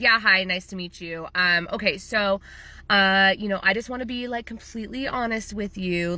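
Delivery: imitating an unfriendly client; not very friendly. Client starting a phone consult, mildly unfriendly. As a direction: brush through niceties to get to the point. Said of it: "that's how the phone call sounded".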